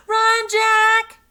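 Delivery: high loud warning shout. A narrator's reading. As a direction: yell the warning at him. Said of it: "shouted Annie".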